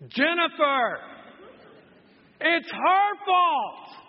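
loud, high indignant outburst; hammed-up blaming of the wife; mock outraged blame. Pastor reenacting his petty rage at his wife.

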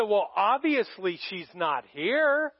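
slow, pointed "obviously"; retold testy reply, drawn out; pointed retort. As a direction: drag it out like a tactless comeback. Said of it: "That's not what you wanna say to a mom".

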